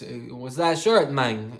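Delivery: slow, hammed-up Hispanic-accented impression; oversold Hispanic accent. Gym guy asks about a band shirt, oversold Hispanic accent. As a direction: imitate a Hispanic accent, laid on thick. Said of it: "I'm overselling it now".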